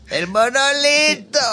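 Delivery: loud, high, slow exasperated cry; angry outburst. Retold or imitated. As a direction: blow up in mock fury. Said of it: "se cabreaba antes de empezar".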